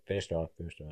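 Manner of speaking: mild resigned coach line; flat consolation. Retold or imitated. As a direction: say it like you know he already failed. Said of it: "They're just like".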